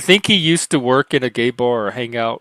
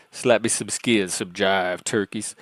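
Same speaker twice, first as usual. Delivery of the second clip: mock Ebonics; 2 semitones lower, 4 dB quieter than usual. Shown as a demonstration. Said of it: "I used to speak Ebonics".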